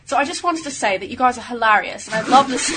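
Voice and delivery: put-on shaky-start British accent breaking into laughter; badly faked British accent, giggling at the end; attempted British accent. Co-host reads listener mail aloud, attempted British accent. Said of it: "I should read it in a British accent".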